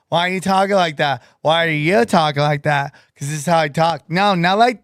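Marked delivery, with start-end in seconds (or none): 0.1-1.2 quick retold question; lightly voiced puzzled barista. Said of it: "She goes". 1.4-2.9 low echo of the question; sketch put-on voice. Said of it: "You're just doing that vice". 3.1-4.1 low put-on customer voice; sketch put-on voice. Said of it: "You're just doing that vice".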